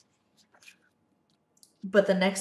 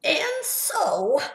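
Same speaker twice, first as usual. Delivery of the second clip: whisper; 8 semitones higher than usual. Acted.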